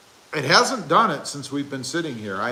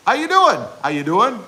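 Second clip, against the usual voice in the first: flirty pickup line; 6 semitones higher, 5 dB louder than usual. Retold or imitated. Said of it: "And she responded".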